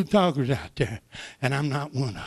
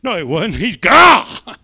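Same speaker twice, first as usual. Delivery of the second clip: emphatic declaration; 9 dB louder, slower than usual. Real, not acted. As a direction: declare it with force.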